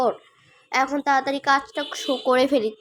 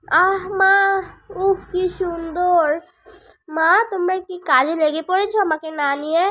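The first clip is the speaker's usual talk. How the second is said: put-on child voice; 5 semitones higher than usual. Child runs in to mother, eager child voice. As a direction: play the little boy, eager and wondering.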